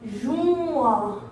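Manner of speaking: "Juin" with a long held vowel; "Juin" said slowly, gliding through the vowel; drawn out. Shown as a demonstration. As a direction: stretch out "Juin" for learners. Teacher stretches the word for learners.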